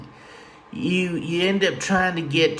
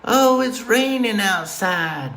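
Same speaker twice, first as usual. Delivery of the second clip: gloomy relative; 6 semitones higher, slower than usual. Retold or imitated. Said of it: "they're like".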